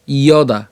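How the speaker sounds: "ইয়দা" opened with iyo, as iyo-daa; y-glide pronunciation. Shown as a demonstration. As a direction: sound the initial glide in "ইয়দা". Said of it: "ইয়র মতো হবে". ("ইয়দা" শুরুতে ইয় ধ্বনি দিয়ে)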